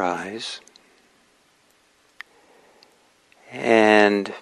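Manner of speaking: slow meditation guidance with long pauses; unhurried meditation teacher, pausing between instructions; guided meditation. Real, not acted. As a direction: ease listeners into stillness, phrase by phrase. Begins guiding the meditation.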